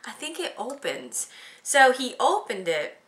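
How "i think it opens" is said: unvoiced hinting whisper. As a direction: nudge him quietly toward the opening. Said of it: "It's like".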